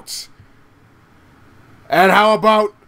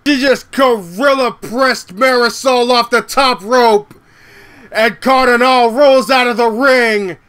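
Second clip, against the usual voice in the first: excited live play-by-play; wrestling commentator; 2 semitones higher than usual. Real, not acted. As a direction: call the match rising with hype.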